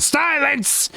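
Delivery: sudden high, booming "Silence!"; commanding shout. Acted. Fortune teller silencing a heckling player, booming. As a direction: cut off the interrupter with a theatrical command. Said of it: "I did not ask for your opinion".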